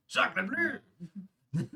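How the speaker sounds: a cartoonish French cry from a GM who admits he can't do French; mock French accent. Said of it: "I gotta speak with the French accent".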